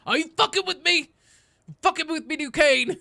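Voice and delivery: high, loud outburst at a teammate; incredulous yelling. Real, not acted. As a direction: yell it in outraged disbelief. Yells at Duquesne during the game.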